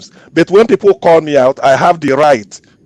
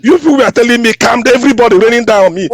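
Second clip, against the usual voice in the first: heated protest; 7 semitones higher, faster than usual. Real, not acted. Debater protesting to the moderator, indignant raised voice. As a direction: protest hotly, voice jumping up. Protesting being told calm down.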